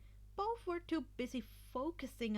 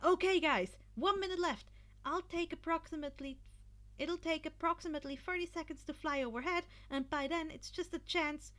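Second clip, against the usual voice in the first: raised, brisk captain rallying his team; urgent team leader; 6 semitones higher than usual. A narrator's reading. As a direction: Izuku briefs his team before the final minute, urgent and raised. Izuku addresses his team.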